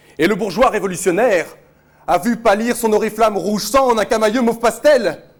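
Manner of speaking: high, loud, carried-away, exaggerated tirade.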